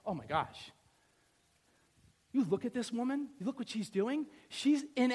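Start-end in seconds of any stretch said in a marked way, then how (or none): none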